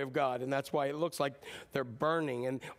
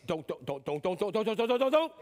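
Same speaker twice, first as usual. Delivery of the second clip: a parent's don't rising to a yell; building parent warning. Retold or imitated. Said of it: "we do it with our kids".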